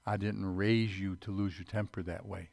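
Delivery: soft, gentle voice of a loving mother; tender mother. Retold or imitated. Mother forgiving her son after he punched the wall, soft and tender. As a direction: lovingly scold the child, softly. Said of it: "And she said".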